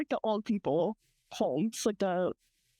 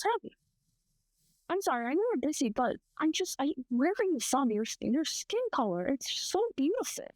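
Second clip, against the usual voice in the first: higher-pitched mock compliment; imitated old admirer; 4 semitones higher than usual. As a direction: lightly mimic a fawning customer, pitched up. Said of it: "and he goes".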